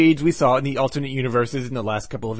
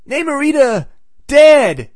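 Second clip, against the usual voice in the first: high, loud hammed-up yell of "Namorita, dead!"; mock yell; 11 semitones higher, 8 dB louder, slower than usual. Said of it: "Johnny yells out".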